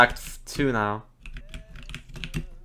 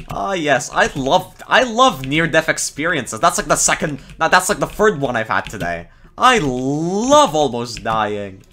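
sarcastic; 2 semitones higher, 5 dB louder than usual. Real, not acted. Sarcastic about near deaths.

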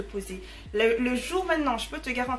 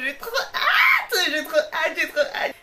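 high, slow, squealing with laughter; giddy laughing shout; excited squeal; 5 semitones higher, 7 dB louder, slower than usual. Real, not acted. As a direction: burst out with glee. Excited about the Q&A.

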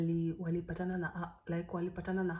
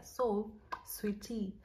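whispered aside; 2 semitones higher, much slower than usual. Real, not acted.

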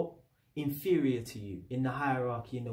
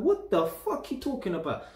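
indignant retort; 6 semitones higher than usual. Retold or imitated. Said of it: "I'm like".

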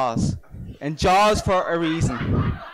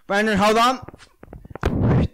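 tipsy auntie; 5 semitones higher, much slower than usual. Retold or imitated. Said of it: "the next thing she goes".

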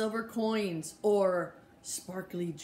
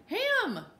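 put-on high little-kid yell, much higher; little boy shouting; 11 semitones higher than usual. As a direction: call it out like an excited toddler. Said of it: "Andy shouted again".

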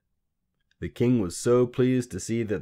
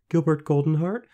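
put-on high, louder questioning girl; tentative guess; 10 semitones higher, 7 dB louder than usual. A narrator's reading. Queen guessing the little man's name, tentative. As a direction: try the name out, pitched right up.

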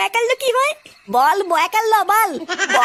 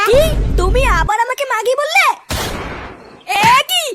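furious; 3 semitones higher, 3 dB louder than usual. Acted. Wife furious at insult.

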